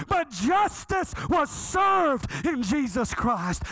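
high, slow, ringing proclamation; full-force preaching. Real, not acted. Preacher proclaiming Calvary to congregation, full force. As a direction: proclaim it with long, punched key words.

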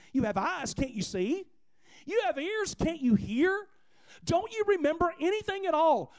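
acted exasperated scolding; confrontational rebuke. Jesus coming at his forgetful disciples, exasperated rebuke. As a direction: press them with one pointed question after another. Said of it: "really comes at him here".

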